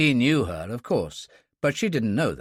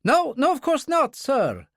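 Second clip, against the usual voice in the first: much higher, flustered backtracking; hasty; 4 dB louder than usual. A narrator's reading. The aide backs down to Kurbsky, hasty. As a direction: rush to agree, louder and higher. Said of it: "the aide said hastily".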